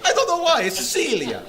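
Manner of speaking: high, loud, laughing bewilderment; real laughing outburst. Real, not acted. Teacher baffled by an Italian map, high and laughing. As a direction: burst out helplessly through laughter.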